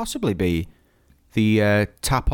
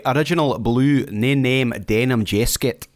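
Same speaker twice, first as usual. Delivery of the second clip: lightly put-on Scottish accent; mock Scottish lilt on a boast; 4 semitones lower than usual. Joking to Scottish Claire about a denim jacket, hint of Scottish accent. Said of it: "you can do a Scottish accent".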